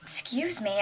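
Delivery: talking while chewing chips; mouth full. Real, not acted. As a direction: speak round a mouthful. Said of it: "I'm eating chips and salsa".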